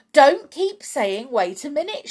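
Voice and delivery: high, loud scolding; impatient shout. A narrator's reading. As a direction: shout down the interruption. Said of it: "shouted Mister Cranky".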